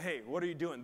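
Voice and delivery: a bright easy hey from Jesus; casual Jesus. Retold or imitated. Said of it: "Jesus going up to him like".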